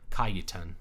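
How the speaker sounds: Cajetan as "KAH-yuh-tun"; pronounced with Y. Shown as a demonstration. Streamer trying another guess at a name, Cajetan said "KAH-yuh-tun". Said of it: "J's are never pronounced the same".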